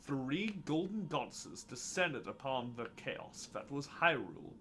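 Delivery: slow, grand storytelling; epic legend narration. Acted. Narrator telling how the goddesses descended, epic legend narration. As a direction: tell it like a creation myth. Reads game legend in put-on voice.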